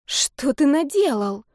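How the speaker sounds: appalled disbelief, drawn out; horrified. Acted. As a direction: gasp it out in dismay. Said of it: "ужаснулась я".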